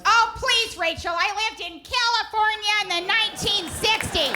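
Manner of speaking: lightly hammed-up jaded mother; knowing mom impression. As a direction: brush it off like a hippie mom. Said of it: "My mom goes".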